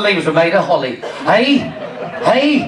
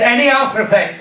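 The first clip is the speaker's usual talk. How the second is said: mock Indian doctor; Indian accent. Doctor asking about the tablet, Indian accent. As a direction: question in a put-on Indian accent. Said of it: "He was an Indian doctor".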